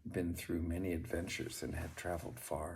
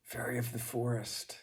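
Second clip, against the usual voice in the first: a raised, high call into the forest; 5 semitones higher than usual. Acted. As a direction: call for the fairy, reaching out. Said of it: "he called out".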